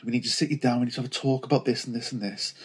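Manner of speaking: quiet, hurried retelling of a serious announcement; nervous, serious. Retold or imitated. Couple sitting mum down for a talk, nervous and serious. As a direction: imitate a nervous sit-down talk, softly and quickly. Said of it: "we were very nervous and serious".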